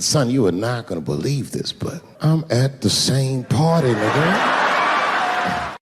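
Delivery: slow, laughing admission; sheepish laughing confession. Retold or imitated. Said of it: "I said".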